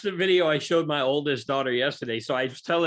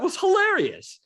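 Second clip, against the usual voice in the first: laughing; slower than usual. Real, not acted. Laughing at the video.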